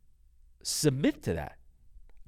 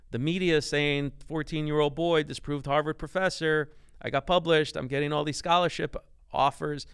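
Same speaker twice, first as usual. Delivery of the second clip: eager son; 3 semitones higher than usual. Retold or imitated. Acts excited son reporting to dad.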